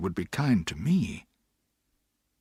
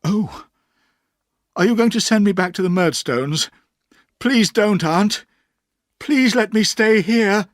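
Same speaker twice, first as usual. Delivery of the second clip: put-on pleading, trembling boy; 10 semitones higher, 8 dB louder than usual. A narrator's reading. Boy begs his aunt to let him stay, pleading. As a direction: beg not to be sent back. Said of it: "I cried, trembling".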